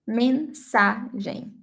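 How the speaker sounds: "Mensagem" slowly, syllable by syllable; Portuguese pronunciation. Shown as a demonstration. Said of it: "And in Portuguese".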